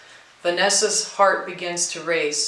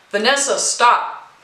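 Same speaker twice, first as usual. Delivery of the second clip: higher, louder stop; firm interruption; 5 semitones higher, 6 dB louder than usual. A narrator's reading. Mary stopping Vanessa's apology, loud and firm. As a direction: cut her apology short.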